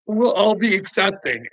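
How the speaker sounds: high, loud sing-song parody of tolerance; mocking high voice. Mocking society's simpering voice, high and loud. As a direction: sneer it out like a simpering crowd. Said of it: "We're like".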